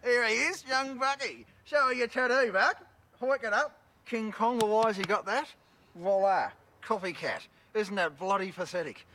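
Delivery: Chopper mocking his fan's copycat tattoo to the camera crew, high excited jeer; excited show-off. Real, not acted. Mocking a fan's copycat tattoo for the camera, high excited jeering.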